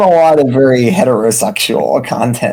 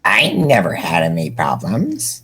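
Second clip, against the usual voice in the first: surprised; 7 semitones lower, 6 dB quieter than usual. Acted. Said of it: "said Terezi, surprised".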